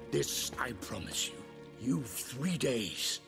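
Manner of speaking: angry threat. Acted. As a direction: deliver a menacing vow, rising in force. Vampire threatens, sets deadline.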